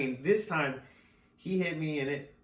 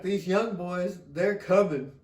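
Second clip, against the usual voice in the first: imitating Barkley; 5 semitones higher, 7 dB louder, slower than usual. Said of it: "Charles Barkley ... he was like".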